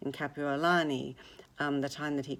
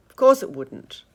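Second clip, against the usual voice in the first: much higher, loud mocking jab; scornful jeer; 11 semitones higher, 14 dB louder than usual. Tom mocking Gatsby after Daisy's admission, loud and scornful. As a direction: gloat out loud over him. Tom's sarcastic triumph.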